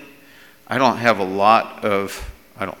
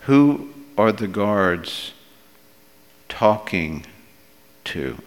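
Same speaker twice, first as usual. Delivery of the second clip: pondering repeat; 2 semitones lower, slower than usual. Real, not acted. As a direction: pause before "talking" and before "to", letting it drop. Same question repeated more softly.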